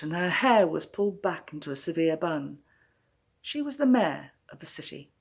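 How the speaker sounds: measured storytelling voice, unhurried and clear; story narration. A narrator's reading. Author reading her own story to listeners, in a storytelling voice. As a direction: draw listeners into a fairytale set in Melbourne.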